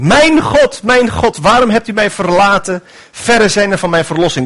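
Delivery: high, pleading cry of abandonment; anguished cry. Acted. Jesus on the cross crying out to God, anguished. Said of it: "Dat zijn de woorden van de Heer Jezus aan het kruis".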